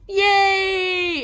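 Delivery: high loud cheer; cheering yay. Retold or imitated. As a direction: celebrate arrival. Celebrating arrival.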